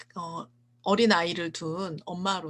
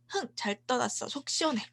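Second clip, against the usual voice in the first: put-on higher, spiteful childish retort; mock angry shout; 7 semitones higher than usual. Boy lashing out at his grieving dad, higher mock shout. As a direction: play the hurt boy snapping back, pitched up. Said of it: "아빠한테 이렇게 소리를 칩니다".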